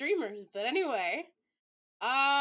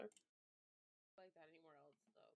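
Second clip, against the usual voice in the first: fading murmur; 4 semitones lower, 26 dB quieter, slower than usual. Real, not acted. Fading aside.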